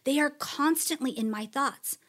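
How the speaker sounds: building awe, some lines whispered, some lines slow; dramatic psalm of praise. Acted. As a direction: proclaim God's mighty works with awe.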